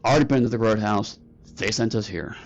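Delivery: quick, lightly voiced bulldog officer; bulldog guard. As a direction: answer curtly as a guard dog. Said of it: "the first bulldog is like".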